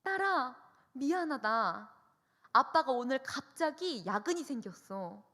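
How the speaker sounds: a dad gently letting his daughter down; apologetic dad. Retold or imitated. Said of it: "아빠한테 전화가 옵니다". (딸에게 미안해하는 아빠, 약간 높게)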